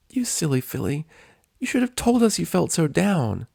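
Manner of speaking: high bubbly pony voice, tearful warmth; Pinkie voice. Acted. Pinkie chiding Rainbow fondly, high squeaky voice.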